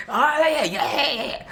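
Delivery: humbled laugh. Retold or imitated. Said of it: "I'm getting humbled".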